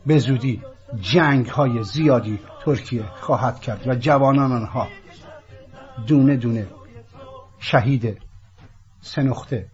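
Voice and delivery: loud, solemn prophecy reading; prophetic proclamation. Acted. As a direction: declaim it like an ancient prophecy. Reads prophecy to the Turks.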